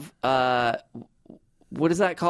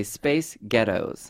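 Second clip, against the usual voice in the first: Scottish accent trick; 3 semitones lower, much slower than usual. Shown as a demonstration. Host teaches guest to say a band name, Scottish accent. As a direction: Space Ghettos said slowly as the Scottish band name. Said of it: "you just say Space Ghettos".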